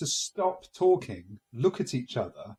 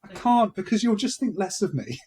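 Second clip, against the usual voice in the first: sheepish excuse; 6 semitones higher, 5 dB louder than usual. Retold or imitated. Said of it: "And I thought".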